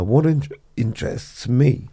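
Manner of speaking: talking through the hiccups; speech broken by hiccups. Real, not acted. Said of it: "I've got the hiccups".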